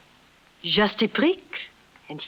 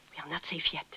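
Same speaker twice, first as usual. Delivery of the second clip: softer, lower warning under the breath; hushed warning; 3 semitones lower, 12 dB quieter, faster than usual. Acted. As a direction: keep it down so they won't hear. Hiding from pursuers on rooftop.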